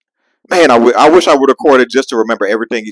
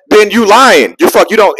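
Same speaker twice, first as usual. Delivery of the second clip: retold angry retort; 10 semitones higher, 5 dB louder than usual. Calling Greg a liar.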